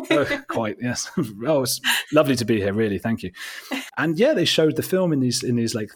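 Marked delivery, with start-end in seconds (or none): 0.0-3.3 flustered, stammering English charm, half laughing; Hugh Grant. Retold or imitated. Englishman thanking Texan festival crowd, overly charming bumbling English. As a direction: overdo the bashful, polite Englishman. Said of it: "upping the Hugh Grant thing".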